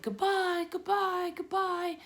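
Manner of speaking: tiny voices calling. A narrator's reading. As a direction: call goodbye like tiny departing spiders. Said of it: "came weakly into Wilbur's ears".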